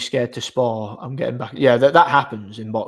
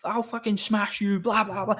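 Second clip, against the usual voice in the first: squeaky, much higher mocking imitation of an angry man; mock raging threat; 9 semitones higher, 3 dB quieter than usual. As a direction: send his threat up into a silly high squeal. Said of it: "jumping up and down like a monkey".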